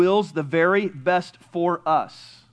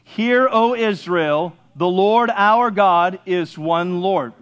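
group reading aloud, full throat; full-throated recitation; slower than usual. Shown as a demonstration. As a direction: proclaim "Hear, O Israel" slowly from the chest. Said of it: "we'll do it again full throat".

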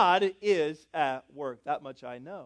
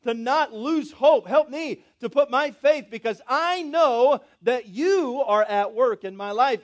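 model prayer; 3 semitones higher, 6 dB louder, slower than usual. Retold or imitated. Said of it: "Just say".

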